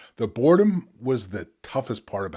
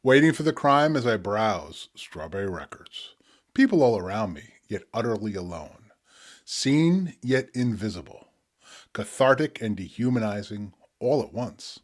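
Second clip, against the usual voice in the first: spoken word poetry. Acted. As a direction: let each image land, pause between. Reads his poem Strawberry Blues.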